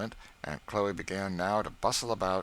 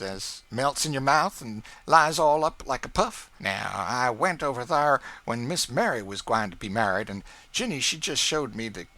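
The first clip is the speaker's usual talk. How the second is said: Aunt Chloe's voice, higher and louder, mocking the neighbours; proud servant belittling another household, raised; Aunt Chloe scornful of rivals; 6 semitones higher, 8 dB louder than usual. A narrator's reading. Cook boasting her household over the Lincolns, scornful.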